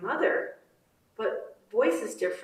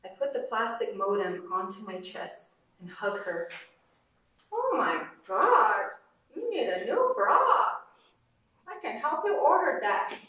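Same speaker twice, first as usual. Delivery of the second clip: put-on Navajo mother accent; 7 semitones higher than usual. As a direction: tease your daughter in a Navajo accent. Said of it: "a Navajo woman's accent".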